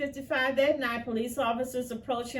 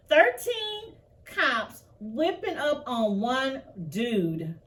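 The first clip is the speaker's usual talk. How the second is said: outraged emphasis; 3 semitones higher, 4 dB louder, slower than usual. Real, not acted. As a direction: spell out the outrage slowly. Outraged commentary on police beating.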